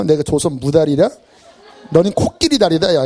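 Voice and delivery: mock comeback with a laugh; laughing retort. Preacher mimics a wounded ego firing back. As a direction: hit back, half laughing.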